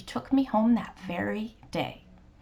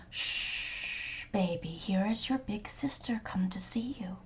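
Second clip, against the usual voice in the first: put-on softly hushing a baby; a gentle shush, then soft reassurance; soothing mother; 5 dB quieter than usual. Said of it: "My mother said".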